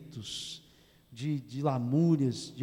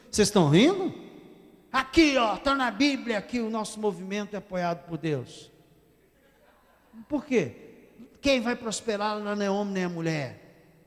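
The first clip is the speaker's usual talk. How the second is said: higher, louder mocking voice of the opponent; 5 semitones higher, 3 dB louder than usual. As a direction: parody the man twisting the text. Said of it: "já peguei gente dessas que". (imitação zombeteira do opositor, voz mais aguda)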